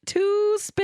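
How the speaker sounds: high, bright call out; excited announcement. Retold or imitated. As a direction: announce it like a grand reveal. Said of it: "they were like".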